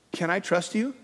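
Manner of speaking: tentative lift on "you"; questioning. Acted. Believer asks God for trust, questioning. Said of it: "We ask the question".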